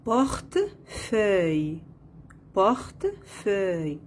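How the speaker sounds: "Portefeuille" in two beats, porte, pause, feuille; split into syllables. Shown as a demonstration. Teacher locating the sound in second syllable, split into syllables. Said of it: "la deuxième syllabe".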